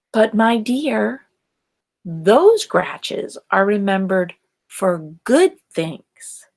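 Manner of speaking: a lightly voiced principal, slow and mild; patient old principal, unhurried; principal's gentle objection.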